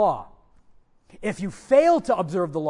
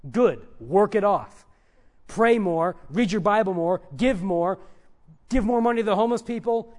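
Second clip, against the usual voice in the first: louder, lightly acted taskmaster; demanding legalist; 5 dB louder than usual. Preacher playing a legalist answering guilt with orders, demanding. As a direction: pile up the orders forcefully, one by one. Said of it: "They say".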